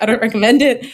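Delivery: said through a real laugh; amused laughing disclaimer. Real, not acted. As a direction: chuckle the words out. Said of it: "that's why I'm like".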